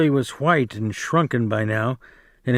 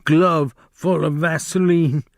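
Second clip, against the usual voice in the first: disgusted; 4 semitones higher than usual. Acted. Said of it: "he said disgustedly".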